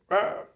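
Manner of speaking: high-pitched mock cry of overwhelm; imitated triggered yelp. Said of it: "The other side's like".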